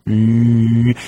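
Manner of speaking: low, steady "mm" hum; imitated engine hum. Guard watches a slow steamroller creep toward him, droning engine hum.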